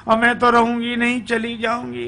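high, sustained monotone complaint; wife's high-voiced protest. Wife complains to her mother-in-law, high-pitched protest. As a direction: hold the pitch up as she vows to leave. Acts wife refusing to stay.

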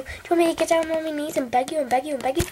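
rushed pleading whisper. Acted. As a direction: beg fast under your breath. Begging viewer not to comment.

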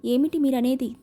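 a mild stammer of shock; understated faltering disbelief; stumbling over ఏమిటి, lightly. Acted. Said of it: "తడబడుతూ అంది జయంతి".

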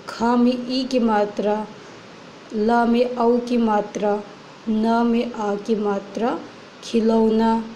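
teacher spelling खिलौना aloud; sounding out words. Shown as a demonstration. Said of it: "spelling खिलौना".

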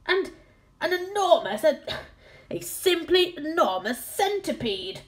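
high, frantic mock scream. A narrator's reading. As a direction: shriek at the giant bug in panic. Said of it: "screamed the captain".

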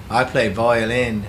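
light put-on British accent, playful. Violinist introducing himself to podcast listeners, light mock British accent. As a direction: introduce yourself in a mild British accent, Beatles-style. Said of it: "Why are you doing that accent?".

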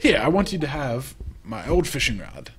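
put-on loud, hearty old fisherman; old sailor voice. Fisherman greeting the newcomer, hearty and loud. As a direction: boom it out like a salty sea dog.

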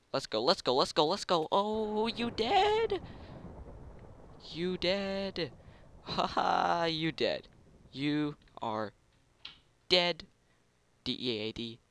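loud, high triumphant taunting; gloating taunt. Real, not acted. Player gloating at the beaten rival, loud high taunt.

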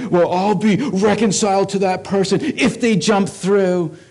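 lightly voiced grudging churchgoer; hint of a petty bargainer; mock grudging believer. Pastor mimicking a grudge-holder setting conditions, lightly mocking.

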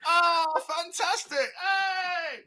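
high, loud crowd cheer ending in a shout; delighted cheer. Pretend. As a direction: cheer like a fan who just saw a star.

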